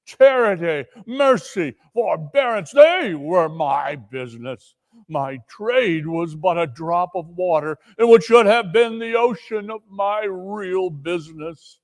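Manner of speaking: lightly voiced ghost, solemn and reproachful; a dead partner scolding; Marley's ghost. Marley's ghost lecturing Scrooge.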